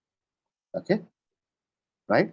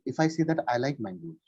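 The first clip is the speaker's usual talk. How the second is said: mangoes said with the voice dropping slightly at the end; falling on mangoes; 3 semitones lower, 4 dB quieter than usual. Shown as a demonstration. Teacher showing a student a fall on "mangoes". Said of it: "when I said mangoes, I went slightly down".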